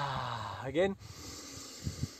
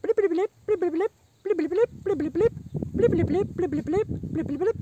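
high bubbly blipping; octopus blips; 11 semitones higher, 3 dB louder than usual. Pretend.

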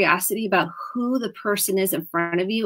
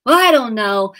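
put-on child's reply; 2 semitones higher, 6 dB louder than usual. Child voiced answering parent.

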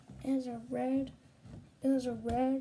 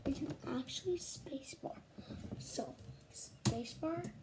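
whispering; 9 dB quieter than usual. Real, not acted. Quietly explaining game controls.

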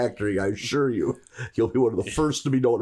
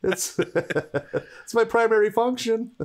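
robot voice; 8 semitones higher, slower than usual. Pretend. Toaster robot voice.

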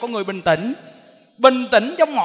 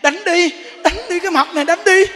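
higher, louder defiant dare to hit her; wife goading husband to hit her; 7 semitones higher, 6 dB louder than usual. Retold or imitated. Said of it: "Bực chồng lên một cái nè".

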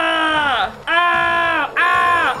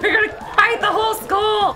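high, wild and giddy; gleeful zombie shouting; 4 semitones higher than usual. Acted. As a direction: shout it with manic glee. Zombie rampage, shouting, laughing.

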